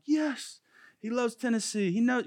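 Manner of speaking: high, sing-song sarcastic agreement; mock enthusiasm. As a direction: ham up the eye-roll. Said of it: "I'm like".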